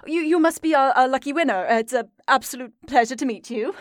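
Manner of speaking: awkwardly polite host, rushing the pleasantry at the end; flustered but courteous introduction; embarrassed greeting. Acted. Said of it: "a little bit in embarrassment".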